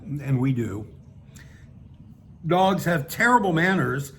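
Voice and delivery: measured, emphatic read-aloud narration; story narration. Acted. Reading a satirical piece to an audience, measured narration. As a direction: read it out with deliberate phrasing.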